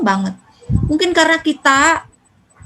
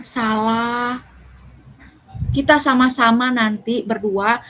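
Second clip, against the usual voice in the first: calm explanation; 2 semitones lower, slower than usual. Shown as a demonstration. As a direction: talk it through slowly like a gentle mother. Mother calmly corrects child. (ibu menasihati anak dengan pelan dan sabar)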